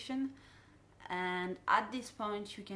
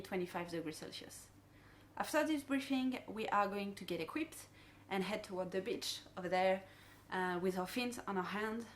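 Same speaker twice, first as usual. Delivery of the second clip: dive boat safety briefing. Shown as a demonstration. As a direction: friendly guide briefing divers. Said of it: "the dive briefing that I will do".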